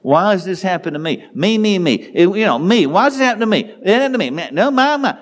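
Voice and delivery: high, mock whiny me-me-me; mock self-centered wail, pitched well up; self-pitying whine. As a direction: play up the self-pity like a sulky child. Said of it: "was feeling sorry. It's self-centered".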